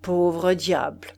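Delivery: slow, heavy, feigned pity; mock deep pity. Husband pitying dead Forestier mockingly, slow. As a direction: sigh it out with exaggerated pity. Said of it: "sur un ton de pitié profonde".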